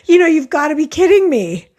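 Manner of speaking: high, loud disbelieving cry; you cannot believe your ears; exasperated outburst. Retold or imitated. Reacting to the teacher's news, high loud exasperated disbelief. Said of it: "I'm like".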